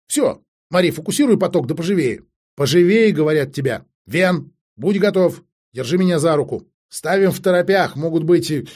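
bossy, pressing instructions; urgent commanding. Acted. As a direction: chivvy them along impatiently. Acted commander hurrying the others.

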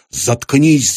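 a touch of a shouted shut up; mild yell. Acted. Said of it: "заорал Пейн". (лёгкий окрик)

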